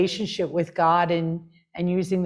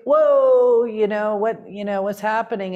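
stunned whoa; 4 semitones higher, 5 dB louder than usual. Retold or imitated. Retells her stunned reaction.

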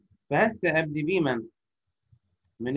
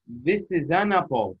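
slow, careful model phrase; model reading; much slower than usual. Shown as a demonstration. Teacher modelling a phrase for pupils, slowly. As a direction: read it slowly for them to copy. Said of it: "احفظها من عندي".

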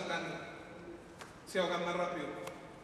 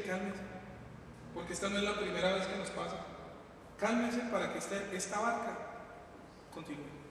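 calming the church; 2 semitones lower, 6 dB quieter than usual. Acted. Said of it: "a la iglesia hay que decirle".

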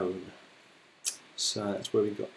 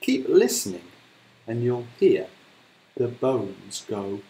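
slow, growing louder to a breathy crunch; menacing crocodile; 7 dB louder, slower than usual. Acted. Crocodile boasting of eating a child, slow menacing threat. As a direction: tease it out and bite down on crunch. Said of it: "and said".

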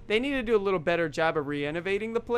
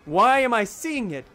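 confused; 3 semitones higher, 5 dB louder than usual. Retold or imitated. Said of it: "I would recollect all this in my dream and say".

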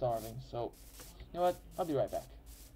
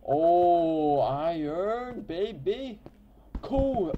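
excited; 5 semitones higher, 8 dB louder, much slower than usual. Real, not acted. Excited mining find.

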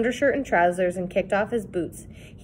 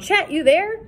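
raised searching call, rising at the end; 10 semitones higher, 4 dB louder than usual. A narrator's reading. Sid calling into the reeds for Chet, loud call. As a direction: shout the question into the reeds. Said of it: "Sid called".

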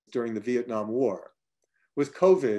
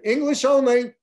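much higher, louder firm command; sharp interruption; 12 semitones higher, 8 dB louder than usual. Retold or imitated. Matt cutting off the Vietnamese chatter, a loud high command. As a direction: cut them off loud and high.

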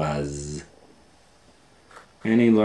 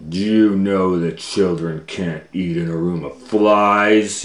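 angry boss; 6 dB louder than usual. Acted. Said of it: "he said".

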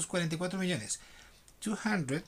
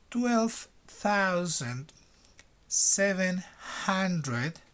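slow dictation reading. Shown as a demonstration. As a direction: read it out slowly for the class to repeat. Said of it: "Primero lo voy a leer lento".

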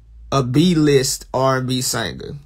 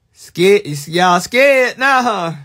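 slow, higher and louder teasing; mock spooky taunt; 3 semitones higher, 4 dB louder, slower than usual. Streamer needling spooked chat, high, slow and taunting. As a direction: rise up high on scared to needle them.

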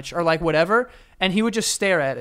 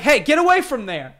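higher-pitched mock telling-off; retold scolding call; 8 semitones higher, 4 dB louder than usual. Man retelling how he scolded his Roomba, raised calling voice. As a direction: call out as if shooing a pet.

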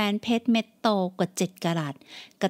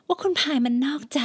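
"ว่าคุณพายมันนอกใจ" voiced, higher, pleading; 5 semitones higher than usual. Daughter repeats complaint.

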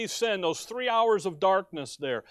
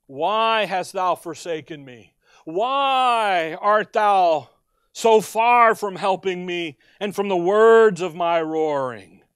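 anguished cry; 2 semitones lower, 5 dB louder, slower than usual. Acted. Preacher voicing Christ's psalm cry.

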